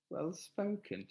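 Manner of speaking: taken aback, voice lifting; incredulous echo. Real, not acted. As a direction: echo it back as if you can't believe it. Repeats comment back in disbelief.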